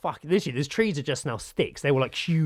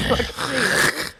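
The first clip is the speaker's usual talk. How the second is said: laughing disbelief; 11 semitones higher, 4 dB louder, much slower than usual. Real, not acted. Laughing after burn.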